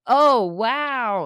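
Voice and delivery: loud, drawn-out mimicked wow; big swooping mock amazement; cook's admiring wow. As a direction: play the ogling coworker. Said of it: "the other one's like".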